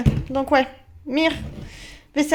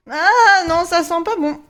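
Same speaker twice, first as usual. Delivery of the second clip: loud, higher disgusted reaction; disgusted cry; 4 semitones higher, 4 dB louder, slower than usual. Real, not acted. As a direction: recoil from the smell out loud. Reacts to bad smell.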